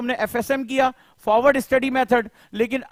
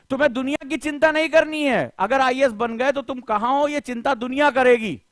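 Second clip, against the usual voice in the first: raised pitch, impassioned pep talk; motivational exhortation; 3 semitones higher than usual. Real, not acted. Coach rallying IAS aspirants to chase their goal, impassioned exhortation.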